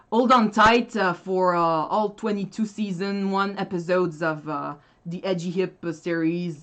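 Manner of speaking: English read with a thick Québécois accent; true Quebec accent. Shown as a demonstration. Showing how a true Quebecker would sound, Québécois accent. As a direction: put on a Quebec French speaker's English. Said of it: "a true Quebec. I have heard someone speak like that".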